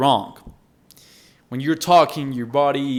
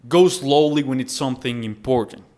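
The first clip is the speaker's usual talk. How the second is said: measured teaching pace; deliberately slow. Shown as a demonstration. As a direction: take it slowly for an important point. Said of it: "as I just did".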